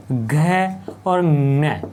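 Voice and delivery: ङ stretched out very slowly as a nasal sound; drawn-out letter sounds. Shown as a demonstration. Teacher spelling out the letters for students, very slowly. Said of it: "इनको सभी को हलंत रखना है".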